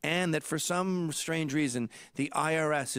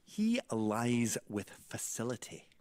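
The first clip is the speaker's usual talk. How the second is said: dad's phrasing; 3 semitones lower, slower than usual. Retold or imitated. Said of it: "the way he phrases it is".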